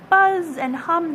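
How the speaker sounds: high, loud, slow buzz; drawn-out buzzing cry; insect cry. A narrator's reading. Fly and bee crying together, high and loud. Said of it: "they cry".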